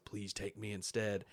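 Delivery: understated evil mockery; smiling mimicry. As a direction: copy the plea quietly with a smile. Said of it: "he says it with a smile".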